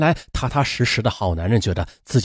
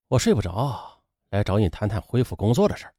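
unhurried restraint; 5 semitones lower, 6 dB quieter than usual. A narrator's reading. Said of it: "不紧不慢地说".

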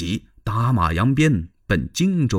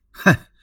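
sigh; 6 dB louder than usual. Acted. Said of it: "叹了口气".

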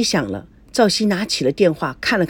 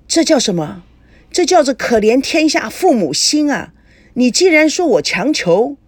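indignant father; 4 semitones higher, 3 dB louder than usual. Acted. Offended father lectures young man.

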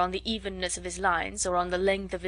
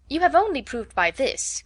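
higher, louder, slow emphatic retort; exclaiming; 6 semitones higher, 5 dB louder than usual. A narrator's reading. Elizabeth countering Darcy on Bingley's behalf, exclaiming. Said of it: "cried Elizabeth".

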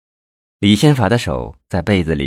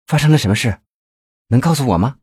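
higher, concerned questioning; mildly surprised, pitched-up voice; startled; 4 semitones higher, faster than usual. A narrator's reading. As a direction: ask a lover with mild alarm. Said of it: "表现得很吃惊".

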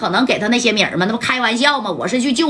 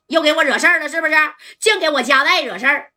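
mock scolding; 6 semitones higher than usual. Boss scolds Ma San in act.

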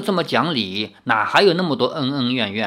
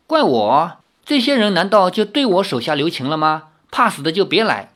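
put-on defiant girl; 3 semitones higher than usual. Lin Yueru argues back.

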